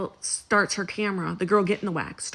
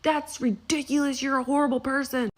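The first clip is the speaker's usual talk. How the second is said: higher, indignant customer whining at the waxer; mock indignant client; 5 semitones higher than usual. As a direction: play the outraged client, pitched up. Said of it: "argue with her and be like".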